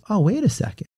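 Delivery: light dawning on you; sudden realization. Retold or imitated. Realization after calming.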